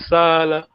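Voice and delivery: "Sala" with the first "a" held long; long vowel. Shown as a demonstration. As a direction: stretch the first vowel, "Saala". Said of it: "make sure you got the long vowel".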